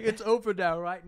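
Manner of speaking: high, loud naive question; mock hopeful reader. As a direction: play the fooled reader, hopeful.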